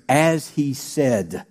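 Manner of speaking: very slow, lingering on the words; slow loving emphasis; savored slowly. Shown as a demonstration. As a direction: let the phrase sink in. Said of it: "I love this next phrase".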